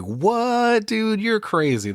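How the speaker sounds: imitating her outraged disbelief; mock incredulous.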